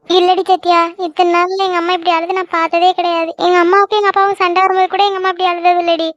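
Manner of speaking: mildly weepy, worried voice; tearful. Acted. Girl tells her friend about her mother, tearful. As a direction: confide it while crying. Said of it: "இவ அழுகிறத பார்த்தா".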